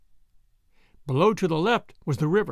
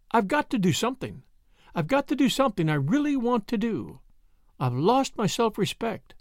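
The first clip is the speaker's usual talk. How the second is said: lightly voiced desperate woman, pitched up; a hint of feminine desperation in a higher voice; Brett, desperate; 5 semitones higher than usual.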